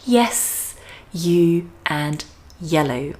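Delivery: word-by-word model of "yes", "you", "yellow" with a Y glide; clear Y sound. Shown as a demonstration. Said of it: "letter Y sound in words like".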